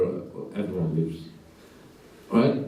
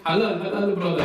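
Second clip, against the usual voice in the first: lightly imitated Iraqi accent, pitched up; higher-voiced Iraqi takeaway owner impression; 5 semitones higher than usual. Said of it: "Oh, Iraqi".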